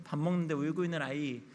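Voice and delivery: ordinary talk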